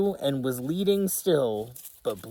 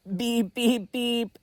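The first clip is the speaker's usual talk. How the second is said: truck beep; 9 semitones higher than usual. Acted. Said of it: "said Little Blue".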